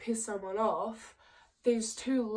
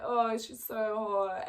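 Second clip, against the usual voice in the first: reenacted lad voice; slower than usual. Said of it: "I'm just gonna reenact this for you, like, probably really poorly".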